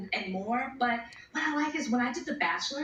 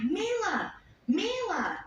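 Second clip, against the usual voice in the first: calling out; 9 semitones higher, much slower than usual. Retold or imitated. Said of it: "And I'm like".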